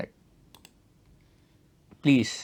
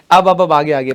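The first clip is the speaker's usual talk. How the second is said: calling out; 9 dB louder than usual. Real, not acted. Teacher calling class back.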